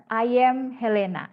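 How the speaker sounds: "I am" run together as "ayem", like ayam; "I am Helena" with a y gluing "I am"; mispronounced I AM. Shown as a demonstration. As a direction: slowly say "I am" as one word, "ayem". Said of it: "pasti ada yang mengucapkan dengan".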